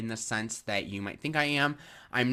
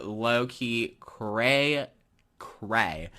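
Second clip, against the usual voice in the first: laid-back surfer drawl; slow, stretched surfer slang; surfer dude voice; much slower than usual. Pretend. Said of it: "Why am I talking like a surfer dude?".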